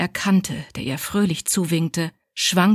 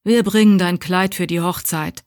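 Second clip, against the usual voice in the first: creaky and harsh; 4 dB louder than usual. Acted. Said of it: "Ihre Stimme war knarzend und barsch".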